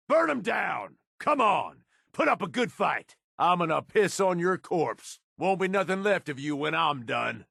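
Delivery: high, yelling combat taunts, mocking the enemy; battle taunts. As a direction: shout them down mid-fight, fast and cocky.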